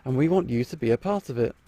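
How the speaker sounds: upbeat commercial voiceover; ad read. Acted. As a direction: sell it like a TV ad. Reads the casting advertisement.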